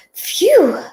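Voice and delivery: high puff of relief; relieved "phew". A narrator's reading. Two people relieved the cat ignores them, sighing phew. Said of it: "let out a sigh of relief".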